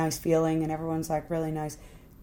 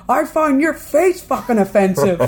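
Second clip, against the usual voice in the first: raised, mock-belligerent retort; acted-out indignant snap; angry comeback; 5 semitones higher, 4 dB louder than usual. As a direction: throw the insult back hotly. Ricky hurls her complaint back.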